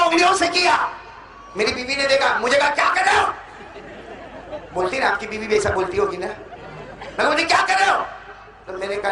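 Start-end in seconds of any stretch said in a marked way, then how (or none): 2.7-3.3 higher, puzzled wife voice; lightly voiced puzzled wife; wife's query. 7.4-8.1 higher, puzzled wife voice; lightly voiced puzzled wife; wife's query.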